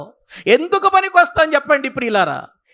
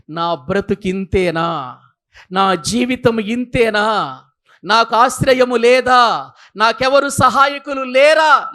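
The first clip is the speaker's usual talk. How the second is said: mild despairing lament; slower than usual. Acted. A frightened sinner wondering aloud if anyone will help, in a slow, mildly despairing voice. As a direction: slowly voice a lost soul asking if there is any help.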